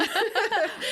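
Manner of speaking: a high, bright burst of laughter. Real, not acted. Laughing after announcing her move.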